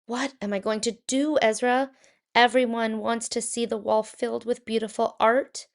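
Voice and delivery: mild worried exclaiming; anxious cry. Acted. Painter frets aloud to his dog Ezra, mildly anxious. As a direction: cry out a little in worry. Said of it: "Shmulik cried".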